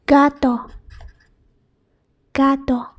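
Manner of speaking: "gato" with hard G, GAH-to. Shown as a demonstration. Teacher giving example word for learners, hard G. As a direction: start "gato" on a hard G, pure vowels. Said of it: "it's pronounced as".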